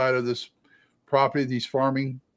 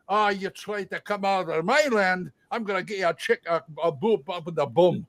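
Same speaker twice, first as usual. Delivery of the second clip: higher Scottish or Irish brogue, arguing back; squabbling Celtic brogue, pitched up; rival Celtic patriarch; 5 semitones higher than usual. Acted. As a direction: answer back as the feuding Irish or Scottish farmer. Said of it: "one Scottish and one Irish".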